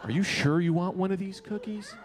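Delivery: mock judgmental question; rude doubting. Party girl to a man grabbing a cookie, rude doubting. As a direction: imitate her snooty doubt, understated. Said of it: "Why was she so rude".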